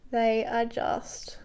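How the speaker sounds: slow soft whisper; a hushed whisper over a stunning shade; whispered admiration. Real, not acted. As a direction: breathe the word in awe. Admiring eyeshadow shade up close.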